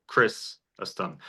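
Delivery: Chrysostom broken slowly after a stressed CHRIS; stress on first syllable. Shown as a demonstration. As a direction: draw out CHRIS, then drop the rest of Chrysostom. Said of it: "the stressor's on the first syllable".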